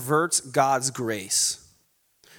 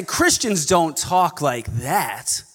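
slow mock-snobby scolding; snobby legalist; slower than usual. False teacher correcting how Christians talk, snobby. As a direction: put on a disapproving church snob. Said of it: "incredibly snobby and legalistic".

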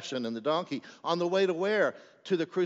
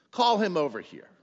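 louder, higher command; raised, commanding voice; calling out; 5 semitones higher, 5 dB louder than usual. Acted. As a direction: call an order across to your followers. Jesus's order to disciples, acted.

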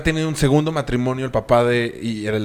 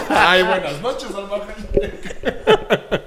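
high, drawn-out mock actress voice, laughing; Salma Hayek; 8 semitones higher, much slower than usual. Mocking a friend's exaggerated pronunciation, hammed-up impression. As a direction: stretch it slowly in a hammed-up high voice. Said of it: "Salma Hayek pronuncia muy mal".

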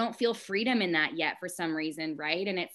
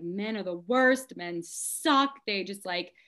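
retold exasperated tirade, higher and louder; frustrated rant; 6 semitones higher, 3 dB louder than usual. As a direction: rattle off a fed-up venting rant. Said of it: "I was so frustrated".

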